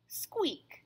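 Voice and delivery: high squeak of a toy duck; squeaky rubber duck. Acted. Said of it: "says the little rubber duck".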